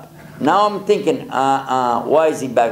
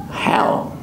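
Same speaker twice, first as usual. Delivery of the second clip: whisper; 3 dB quieter than usual. Retold or imitated. Thinking in the cold.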